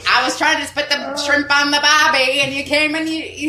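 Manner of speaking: high, loud mock Australian; hammed-up Aussie accent with a laugh in it; insane Australian accent. Joking to friends about shrimp on the barbie, exaggerated Australian accent. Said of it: "that was the most insane Australian".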